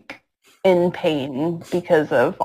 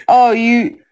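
higher, mocking menace; mock menacing taunt; 5 semitones higher than usual. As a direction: tease him before the kill. Guts taunting the snake demon.

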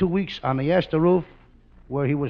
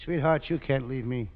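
mock romantic plea. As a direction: lay on the mock romance, hushed. Costello woos Viola.

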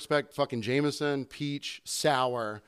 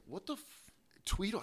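confused mutter; 6 semitones higher, 12 dB quieter than usual. Retold or imitated. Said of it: "And I was like".

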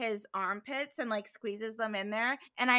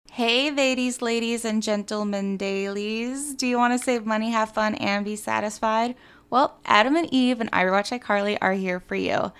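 ad read; 8 dB louder than usual. Real, not acted. Reads sponsor ad.

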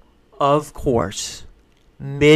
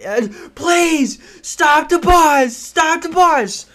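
high, slow pleading shouts; desperate yelling; 13 semitones higher, 4 dB louder, much slower than usual. Retold or imitated. Running after the Greyhound, shouting to stop. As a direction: beg the bus to stop, full voice. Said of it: "I'm flailing my arms".

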